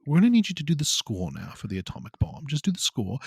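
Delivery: a light put-on British accent; a hesitant try at a British accent, voicing the director. Voicing Nolan to his composer, in a light British accent. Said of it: "I don't know if I can do the British accent".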